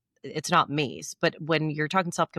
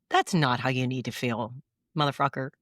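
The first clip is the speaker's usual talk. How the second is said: mock tough self-talk; 5 semitones lower than usual. Shown as a demonstration. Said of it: "It sounds mean".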